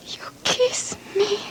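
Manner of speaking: soft, slow, wondering; quiet amazement after the kiss. Acted. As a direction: say it hushed in disbelief.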